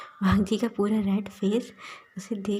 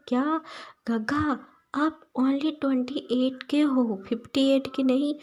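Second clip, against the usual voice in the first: higher, wide-eyed shocked protest; shocked disbelief; 5 semitones higher than usual. Acted. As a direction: act stunned at such old-man talk. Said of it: "shocking face बना के बड़ी-बड़ी आंखें खोल के देखता है". (हैरान होकर, ऊँची आवाज़ में)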